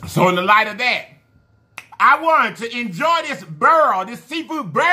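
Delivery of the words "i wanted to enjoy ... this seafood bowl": mock New Orleans accent, higher and slowed, leaning into burl for bowl. Imitating how New Orleans folks say seafood bowl, New Orleans accent. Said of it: "So they talk like that".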